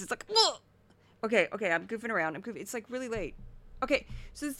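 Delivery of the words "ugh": high, sudden ugh; mock disgusted ugh. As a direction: blurt an involuntary-sounding ugh. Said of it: "It's like a disease".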